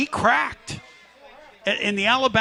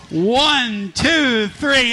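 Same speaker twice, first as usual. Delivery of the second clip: measured count, pitched up; 4 semitones higher, 3 dB louder, much slower than usual. Real, not acted. Host counting down the fan to lead the band, raised count-in. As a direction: count the singer in, rising in pitch. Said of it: "I'm gonna count you down".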